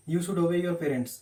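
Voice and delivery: very slow, each word laid out for students; slow dictation. Shown as a demonstration. Teacher reading an example to students, very slowly. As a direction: spell it out slowly like dictating to a class.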